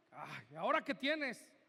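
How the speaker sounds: low, exasperated imitation of a husband; unempathetic husband. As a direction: act the husband who can't be bothered. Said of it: "no somos empáticos ni siquiera con nuestra esposa".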